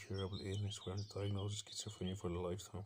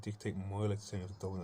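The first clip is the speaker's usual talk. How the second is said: "dictate" leaned on hard, a touch louder; stress on dictate; 3 dB louder than usual. Real, not acted. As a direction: punch the word "dictate" to hammer it home. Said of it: "I'm gonna stress the word dictate".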